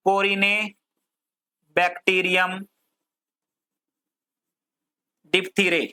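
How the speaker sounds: very drawn-out syllables, long pauses; slow dictation. Shown as a demonstration. Teacher giving students a bacterium name to write, slow dictation. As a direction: dictate it piece by piece, very slowly.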